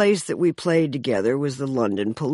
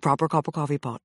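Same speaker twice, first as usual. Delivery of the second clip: mock English diction; 3 semitones lower, 4 dB quieter, much faster than usual. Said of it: "tongue twisters like that".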